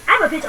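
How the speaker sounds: "Atmosphere" stressed on AT; stress on first syllable. Shown as a demonstration. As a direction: hit the opening of "Atmosphere". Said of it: "chọn số một".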